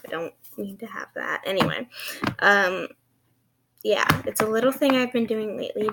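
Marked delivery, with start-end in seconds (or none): 3.8-5.9 lisping s sounds, slightly fast; slushy sh for s. Real, not acted. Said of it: "Sorry for my lisp".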